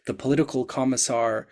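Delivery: drawn out like a dreary story title; slow mock title read. Mocking a dull factory story title to the group, slow deadpan. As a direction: spell out the title slowly, deadpan. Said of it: "That's the title of the story".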